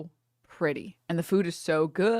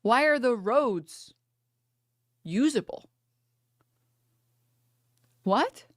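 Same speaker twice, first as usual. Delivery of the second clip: higher, slow, astonished question; amazed; 4 semitones higher, slower than usual. Retold or imitated. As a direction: ask it in slow disbelief. Amazed at clear roads.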